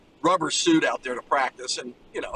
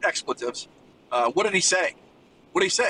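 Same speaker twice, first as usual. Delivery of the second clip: retold angry demand; 2 semitones higher than usual. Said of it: "he starts screaming and yelling".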